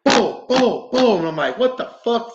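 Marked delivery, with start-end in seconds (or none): 0.1-1.2 high-pitched boom, boom, boom; imitated banging. The house answers the investigator with bangs, imitated booms. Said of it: "And I heard". 1.6-2.3 high-pitched, baffled reaction; retold startled disbelief. Investigator recalls hearing bangs answer him, startled disbelief.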